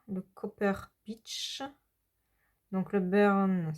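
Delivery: real French accent on English pencil names; English colour names said slowly with a French accent; accent français en anglais. Real, not acted. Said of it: "excusez-moi pour mon accent anglais". (accent français sur les mots anglais)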